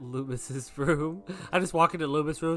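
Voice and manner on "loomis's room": laughing. Real, not acted. Breaks up mid-sentence.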